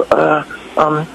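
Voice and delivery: hesitant fan request, lifting high at the end; stammer, then pipe up like a starstruck fan; fanboy awkwardness. Retold or imitated. Fan asking a star for picks, awkwardly fanboying. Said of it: "I totally pulled a fanboy".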